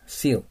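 seal with a clear s, falling tone; pronunciation model. Shown as a demonstration. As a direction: say seal for learners to repeat, s not sh. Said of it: "発音してください".

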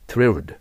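"thrilled" as one punched word with th plus r; careful thrilled. Shown as a demonstration. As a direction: model the hard "thr" of "thrilled" firmly. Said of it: "Rの発音しにくいから". (thrilled の r を意識して強く発音)

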